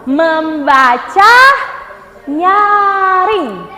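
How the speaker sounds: "Membaca" drawn out slowly; slow, clear translation; slow teaching pace. Shown as a demonstration. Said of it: "ada yang pernah dengar kata read aloud?". ("Membaca nyaring" pelan)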